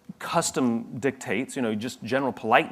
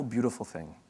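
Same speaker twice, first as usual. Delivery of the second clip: whispered; 7 dB quieter than usual. Real, not acted. Speaker to the audience, in a whisper. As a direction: drop to a breathy whisper on the last words. Praising human interaction, voice drops.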